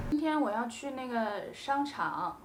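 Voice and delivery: 轻声自然地用那个; relaxed filler demo. Shown as a demonstration. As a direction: drop 那个 in casually while thinking. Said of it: "you can say 那个".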